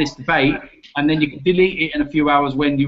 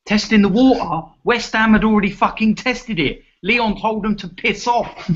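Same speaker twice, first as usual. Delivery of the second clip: incredulous outrage; 6 semitones higher than usual. Real, not acted. To his co-host over the bid, incredulous outrage. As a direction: pitch jumps up in disbelief. Heated football argument.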